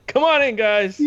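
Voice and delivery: high, bright host greeting; game show host. Retold or imitated. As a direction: call them in like a TV host. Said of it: "It could be like".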